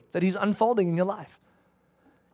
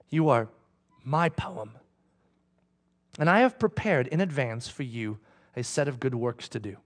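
much softer, low, intimate voice; God's gentle whisper; 7 semitones lower, 5 dB quieter than usual. Pretend. God reassuring the listener, soft and hushed. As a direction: speak it softly like God leaning close. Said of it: "let him whisper to you and say".

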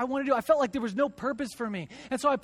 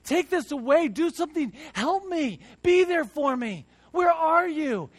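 louder, pleading cry to God; desperate plea; 5 semitones higher, 4 dB louder than usual. Retold or imitated. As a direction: beg God out loud to be there. Retold desperate prayer to God.

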